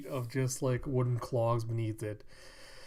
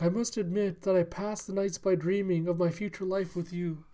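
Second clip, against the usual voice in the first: higher, lightly voiced courtesan; lovestruck courtesan; 6 semitones higher than usual. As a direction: confess your love in a lifted voice. Courtesan confessing love to suitor.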